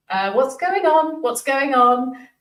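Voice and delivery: slow, high, drawn-out disbelief; retold bewilderment. Two friends in the car react to the gift, bewildered. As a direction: stretch each word out high, acting baffled.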